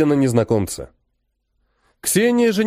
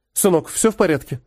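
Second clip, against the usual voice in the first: frightened; 5 semitones higher than usual. Acted. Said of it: "испуганно спросила Ксения".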